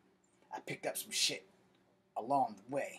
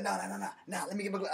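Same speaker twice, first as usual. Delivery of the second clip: higher, louder pleading no no no; panicked Corey; 7 semitones higher, 5 dB louder, faster than usual. Retold or imitated. Corey begging to get his glove back, higher and louder. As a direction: beg him to let you grab the glove. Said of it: "He's like".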